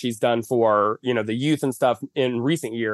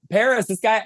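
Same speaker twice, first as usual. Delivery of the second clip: paparazzi calling out; 10 semitones higher than usual. Retold or imitated. Paparazzo shouting to Paris Hilton about the fan, calling out. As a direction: call her name to catch her attention. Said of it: "the paparazzi was like".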